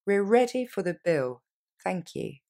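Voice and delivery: slow model sentence. Shown as a demonstration. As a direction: let the phrase unfold slowly. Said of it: "Plus lentement".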